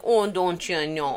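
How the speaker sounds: slow Minnesota "don't you know"; imitated Minnesotan lilt; Minnesota accent. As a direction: lay on a folksy Minneapolis accent. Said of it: "I was just in Minneapolis".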